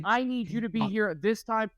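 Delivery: indignant, speeding up by the end; mock yelling boss. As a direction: imitate a toddler playing an irate agent. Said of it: "He's yelling at his, at assistants".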